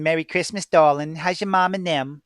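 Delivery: lightly put-on Chalmette accent. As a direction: imitate Chalmette locals' New Orleans accent. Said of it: "people talking like this".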